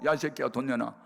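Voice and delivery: half-hearted mock demand at normal pitch; toned-down angry demand. Repeats the mother's demand, less heated.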